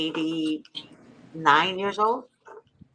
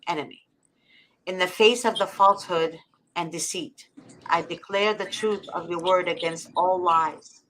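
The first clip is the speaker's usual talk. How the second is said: prayer reading. Acted. Reading a translated prayer to listeners, solemn and devout. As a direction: pray it aloud with earnest conviction. Reads a prayer against enemies.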